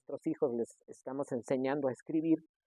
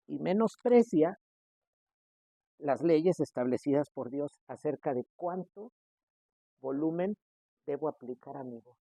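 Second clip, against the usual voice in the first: ordinary talk, nothing marked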